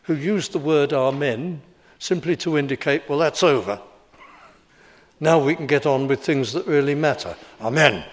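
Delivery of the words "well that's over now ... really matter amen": put-on old schoolmaster. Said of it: "sound just like my old schoolmasters".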